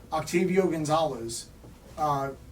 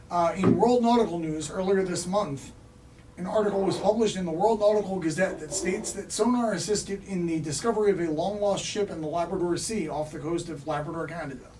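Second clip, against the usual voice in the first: slightly raised news-reader delivery; mock news read; 2 semitones higher than usual. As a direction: read out a comic news bulletin. Reads a mock news item.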